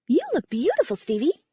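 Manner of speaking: high, whistly little bat voice; a pet bat piping up with a high whistle; whistling bat voice. A narrator's reading. Bat complimenting Stevie on her dress, high and whistly. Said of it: "Belfry said on a whistle".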